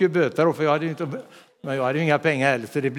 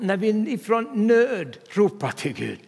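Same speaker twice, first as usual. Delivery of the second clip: normal talking voice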